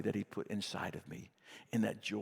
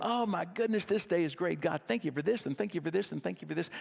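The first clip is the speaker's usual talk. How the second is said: mock overjoyed; 5 semitones higher than usual. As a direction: gush about the day like a cheerful caricature. Mock overjoyed morning gratitude.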